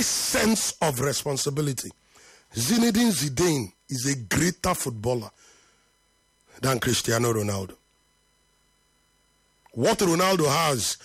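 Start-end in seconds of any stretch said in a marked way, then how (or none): 2.5-7.7 lower, deliberate, each word set down with weight; slowly. Shown as a demonstration. Host repeats his Zidane claim to a Ronaldo fan, slowly and lower. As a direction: say it gravely, like a verdict you stand behind. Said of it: "Let me say this slowly".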